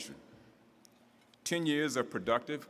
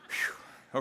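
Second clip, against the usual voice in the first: breathless laugh. Real, not acted. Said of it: "I'm out of breath".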